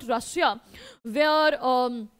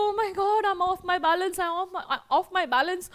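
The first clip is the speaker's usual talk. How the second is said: higher-pitched, mildly giddy happiness; overjoyed; 4 semitones higher than usual. Acted. Teacher voices a father fainting with joy, mildly overjoyed. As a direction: act out being a little overcome with joy. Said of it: "he's so happy that he's like".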